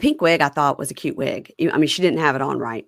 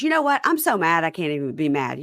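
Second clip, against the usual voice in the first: exasperated in a raised voice; lightly voiced furious girlfriend; mock girlfriend. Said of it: "she goes".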